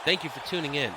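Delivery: lively ringside commentary, calling each move; energetic live commentary of a wrestling match; play-by-play. Acted. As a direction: call the match like a wrestling announcer. Streamer calls wrestling match play-by-play.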